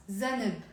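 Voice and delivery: zanb eased into za-neb; two syllables. Shown as a demonstration. Teacher shows it is easier, zanb with added vowel. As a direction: put a short vowel before the b in zanb. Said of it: "kind of a two syllable word".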